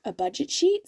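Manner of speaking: talking through hiccups; words broken by hiccups. Real, not acted. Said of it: "Sorry, I've got the hiccups".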